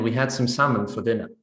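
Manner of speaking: salmon said the standard way, silent l; standard pronunciation. Acted. Speaker telling a friend about dinner, standard pronunciation of salmon. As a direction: say "salmon" with no l sound. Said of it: "initially the person says salmon".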